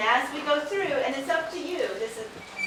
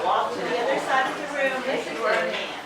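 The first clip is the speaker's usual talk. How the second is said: speaking up so the back can hear; louder; 3 dB louder than usual. Real, not acted. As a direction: raise the voice for the room. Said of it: "Can you talk louder, please?".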